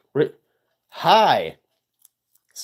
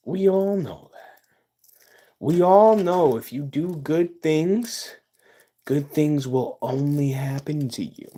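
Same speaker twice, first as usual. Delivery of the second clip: sarcastic. Acted. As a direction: say it like a sugary fake lesson. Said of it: "obviously sarcasm".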